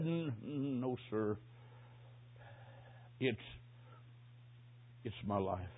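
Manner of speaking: soft, low, halting rasp; hoarse whisper. Acted. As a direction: struggle out each word like a dying man. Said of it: "Then a hoarse whisper".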